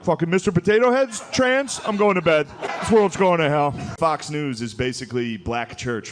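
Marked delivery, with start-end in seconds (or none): 0.0-3.7 put-on high, louder old-man rant; mock outraged dad; grumpy outburst. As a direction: storm off to bed grumbling. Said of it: "he'll just stand up and be like".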